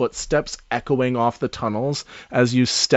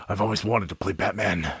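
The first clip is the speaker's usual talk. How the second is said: quick, softer character voice; lightly voiced NPC, a bit quicker; 5 semitones lower, 8 dB quieter, faster than usual. GM voicing Christian to the party, lightly voiced. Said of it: "He says".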